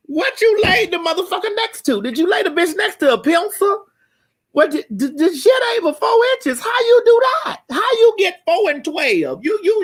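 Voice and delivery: high-pitched shrieking disbelief; incredulous shriek. Acted. Comic shrieking at the man's size. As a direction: shriek it like you can't believe it. Continuing the mocking rant.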